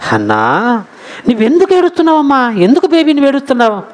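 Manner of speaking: imitating a husband comforting his wife; loving concern. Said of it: "ఎంత ప్రేమగా మాట్లాడుతున్నాడంటే". (ప్రేమగా ఓదార్చే భర్త అనుకరణ)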